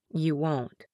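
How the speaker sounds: lightly voiced hurt man; weak man. Injured man reassures her.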